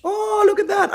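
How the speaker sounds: high, loud "oh" of sudden finding; surprised discovery. Real, not acted. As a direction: exclaim as you stumble on something. Spots the viewers' questions live.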